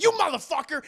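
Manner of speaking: loud, high outraged cry; mock angry yell. Dracula sees the mirror, hammed-up furious yell. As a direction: explode in hammed-up fury. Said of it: "He's like".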